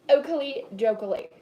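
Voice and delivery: "Oakley dokily" sung out loud and bouncy; playful exclamation. Real, not acted. Host cheering herself on at the stove with a loud, playful "Oakley dokily". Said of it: "Yes, I just said oakley dokily".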